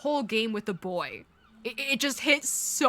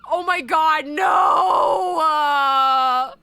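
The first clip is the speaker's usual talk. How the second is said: loud, anguished wail; real crying shout of dismay; tearful disbelief; 5 dB louder, much slower than usual. Real, not acted. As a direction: cry out in shock, voice rising on the no. Crying at game's ending.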